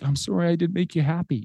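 mildly plaintive retold apology; tearful child. Son apologizing to dad after practice, mock tearful. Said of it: "he starts crying again".

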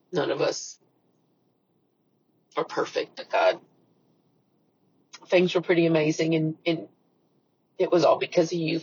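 soft, subdued personal prayer. Real, not acted. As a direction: pray quietly and earnestly to God. Leads a closing prayer.

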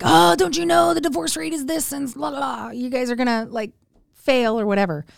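high, mock-alarmed busybody; freaked out. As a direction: imitate fretful warnings, tapering into blah-blah. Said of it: "people really getting freaked out".

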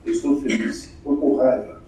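quiet, low and emotionless; deadpan demo of a blank speaker; expressionless. Shown as a demonstration. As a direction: state each feeling with no expression at all. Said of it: "Tem gente que não expressa nada no semblante".

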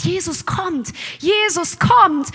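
slow excited call that Jesus is coming; a blind man hears Jesus coming and calls out eagerly. Retold or imitated.

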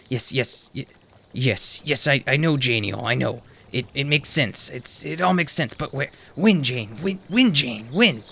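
lightly voiced old man, muttering to himself.

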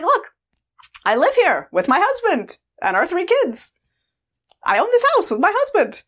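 high, sing-song show-and-tell; sweet explaining. Retold or imitated. Grown woman showing her younger self the house, sweetly explaining. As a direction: point it out sweetly, pitched well up.

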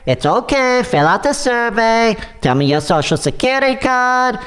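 put-on light Russian accent, pushy scammer; smooth-talking caller with a Russian accent. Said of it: "his Russian accent's coming out".

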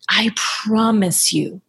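slow, reassuring promise with a smile; smiling, drawn-out reassurance. Shown as a demonstration. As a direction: lean slowly on "promise", smiling. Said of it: "Say that with a smile".

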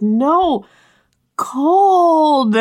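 insist, shivering and stubborn; feverish protest. Retold or imitated.

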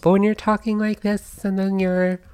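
very high falsetto demo. Shown as a demonstration. Podcaster trying out the pitch tip for listeners, falsetto. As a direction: flip right up into a falsetto voice. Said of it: "I'll try to do it".

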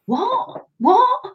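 high-pitched imitation of baffled listeners; mock bafflement. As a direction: squeak it as a puzzled question.

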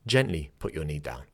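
calm, low-pitched teacher cue; gentle cue. Shown as a demonstration. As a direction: ease them gently into the pose. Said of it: "if you wanna be gentle".

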